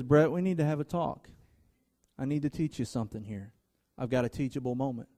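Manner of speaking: calm correction from a patient father; still small voice. Retold or imitated. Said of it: "he also has a still small voice".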